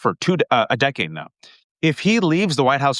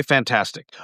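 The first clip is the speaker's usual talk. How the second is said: deadpan sarcasm. Retold or imitated. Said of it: "And I say".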